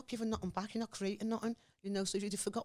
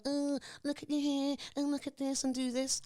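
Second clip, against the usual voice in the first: mock white onlooker; 7 semitones higher than usual. Mimicking a white person fussing over her hair, lightly mocking. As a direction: lightly imitate a patronising white stranger. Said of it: "what a white person's gonna go".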